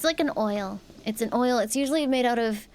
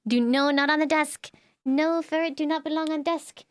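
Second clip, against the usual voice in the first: scolding; 5 semitones higher, 3 dB louder than usual. Real, not acted. Ferret climbing on desk.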